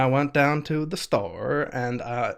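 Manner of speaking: put-on old New England lilt with a bounce; bouncy New England lilt. Shown as a demonstration. Showing a friend the lilt, bouncy New England accent. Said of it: "a bounce to it".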